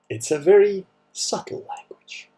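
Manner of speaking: deadpan irony. Acted.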